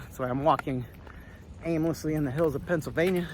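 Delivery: a hint of Tennessee accent. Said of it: "that was kind of my Tennessee accent".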